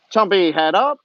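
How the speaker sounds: loud call to the gator; firm shout to the alligator; called command. Real, not acted. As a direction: call it out firm so he lifts his head.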